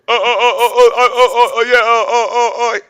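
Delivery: high, halting stammer; put-on high stuttering janitor voice; Scooby. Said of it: "he kinda talk like this".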